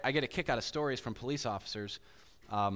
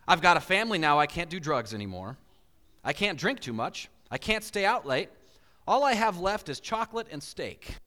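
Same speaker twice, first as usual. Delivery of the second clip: quoting a big guy; 3 semitones higher, 4 dB louder than usual. Retold or imitated. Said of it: "And his quote said this".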